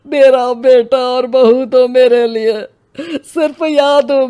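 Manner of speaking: put-on a grieving old father close to breaking; choked-up lament; tearful grief. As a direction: voice thick with held-back tears, rising. Grieving father over son's skeleton.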